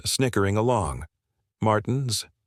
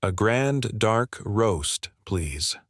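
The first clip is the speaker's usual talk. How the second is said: polite Canadian, unhurried; a light Canadian lilt, very slow; soft Canadian accent; much slower than usual. Acted. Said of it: "his soft Canadian accent becoming more apparent".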